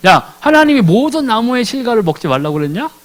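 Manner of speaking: coaxing, sly rising question on 하나님이; a cunning serpent fishing for a slip; sly, leading question. Retold or imitated. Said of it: "아주 간사하게 얘기했잖아요".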